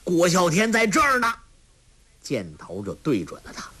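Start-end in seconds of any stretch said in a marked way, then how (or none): 0.0-1.3 high ringing battle cry; fierce shout. A narrator's reading. Guo Xiaotian aiming his bow at the officer, fierce shout. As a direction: announce yourself like a warrior. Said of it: "喝道".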